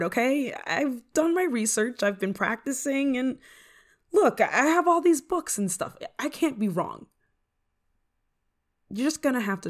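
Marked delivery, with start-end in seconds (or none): 3.2-6.0 high, insistent appeal; flustered insistence; defensive protest. Acted. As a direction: argue your case with voice raised in pitch. Defending herself to doubting friend.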